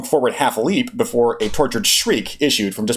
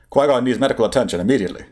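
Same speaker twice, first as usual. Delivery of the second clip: urgent hushed whisper; 3 semitones higher, faster than usual. Acted. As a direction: whisper it, tense and quick. Whispered urgent plea in story.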